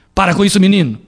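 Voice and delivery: father scolding. Shown as a demonstration. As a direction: rebuke the boy firmly. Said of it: "O pai não ralha". (pai ralhando com o menino)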